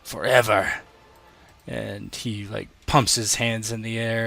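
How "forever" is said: taunting gladiator. Acted. Game master as gladiator to a shielded fighter, loud taunting. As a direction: crow it slowly and loudly at a beaten foe. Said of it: "he just".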